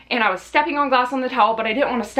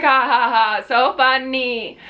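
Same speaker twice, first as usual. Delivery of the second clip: sarcastic fake laugh; 2 semitones higher, slower than usual. Answering dad's joke.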